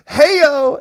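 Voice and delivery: loud, high "hey-o" whoop; whooping cheer. Real, not acted. Cheering a home-run comment, loud excited whoop. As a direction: call it out like a rimshot after a zinger.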